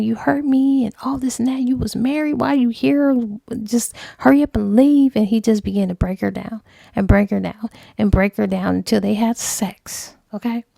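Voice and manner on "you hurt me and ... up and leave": protesting woman. Retold or imitated.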